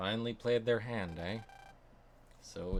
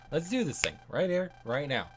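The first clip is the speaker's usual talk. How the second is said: loud, higher battle cry; fired-up shout; 6 semitones higher, 7 dB louder than usual. Acted. Hothead yelling at a rival to battle right now. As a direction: yell it like you're itching to fight.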